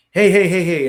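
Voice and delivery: loud, high, repeated interjection; retold burst of protest; upset protest. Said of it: "I got a little upset".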